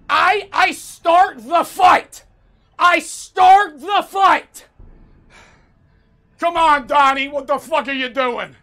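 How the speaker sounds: loud, high mocking imitation of a game coach; hammed-up boxing trainer yelling; Sylvester Stallone. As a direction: bellow slow, drawn-out corner advice in mockery. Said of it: "whoever the fuck made these voice lines".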